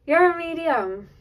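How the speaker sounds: high, slow, laughing through it; real delighted laugh as you repeat it; beaming laugh over the words; laughing with joy. Real, not acted. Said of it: "I don't know why I'm laughing".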